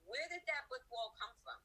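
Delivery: sudden high, amazed exclamation; mock wonder at a finished wall; surprised. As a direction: act amazed at the wall that appeared. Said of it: "you're like".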